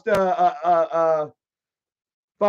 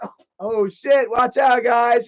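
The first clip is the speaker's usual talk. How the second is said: higher, mock-worried warning; mock alarm; 4 semitones higher, 4 dB louder, slower than usual. Antagonizing the guys after kicking the chair, mock alarm. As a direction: call out a fake warning.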